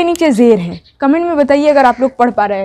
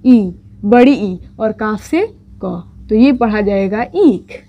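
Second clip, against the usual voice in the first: slow spelling out; 3 semitones lower, slower than usual. Shown as a demonstration. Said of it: "छोटी ये मिलकर क्या हो जाएगा".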